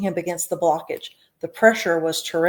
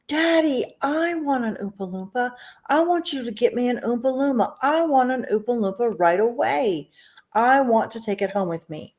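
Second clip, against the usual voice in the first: put-on spoilt girl whining; 5 semitones higher than usual. Spoilt Veruca demanding.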